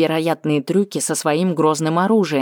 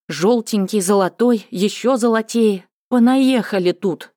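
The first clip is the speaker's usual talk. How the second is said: higher, scornful inner grumble; irritated mocking; 5 semitones higher than usual. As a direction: sneer at the endless guests. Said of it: "думала она".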